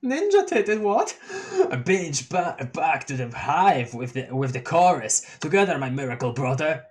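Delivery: goofy honking clown troll; silly clown. Acted. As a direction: honk it like a giddy clown. Gamzee honking with glee.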